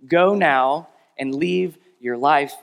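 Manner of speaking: slow, firm, commanding line. Retold or imitated. Jesus commanding the woman to leave sin. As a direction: lay it down as a command, slowly. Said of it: "directly to her as a command".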